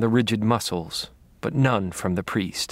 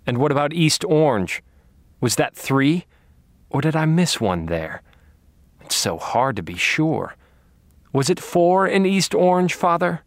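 taunting; 6 semitones higher than usual. Acted. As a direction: feign uncertainty to torment him. Taunting the captive priest.

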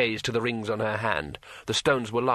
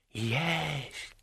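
telepathic dragon voice; 3 semitones higher, 6 dB quieter than usual. Acted. Dragon answers.

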